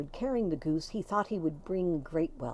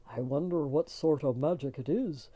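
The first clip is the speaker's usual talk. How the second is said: curious Magoon; 5 semitones lower than usual. A narrator's reading. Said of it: "said Magoon to his wife".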